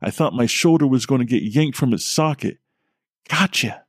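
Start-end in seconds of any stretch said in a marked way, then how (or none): 3.3-3.8 higher, lightly voiced girl's gotcha; little girl exclaiming. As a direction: snap it out like a gleeful little girl. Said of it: "exclaimed a little girl's voice".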